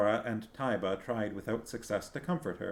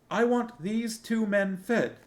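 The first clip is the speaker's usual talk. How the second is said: commanding; 13 semitones higher, 5 dB louder, slower than usual. A narrator's reading. Princess orders the cook.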